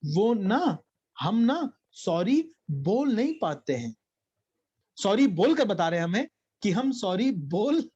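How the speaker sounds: a hint of a small child speaking sweetly; child's voice, tender and halting, just lightly done; lovingly voiced toddler. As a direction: gently play the little boy's earnest excuse. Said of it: "फिर बड़े प्यार से बोले".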